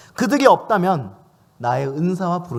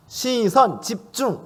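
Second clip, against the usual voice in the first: pitched up, mock call for attention; mock command shout; 5 semitones higher, much slower than usual. Officiant demanding the guests' attention, mock shouted command. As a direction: bark it like a pretend officiant. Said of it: "청중들에게 막 이렇게 하십니까?".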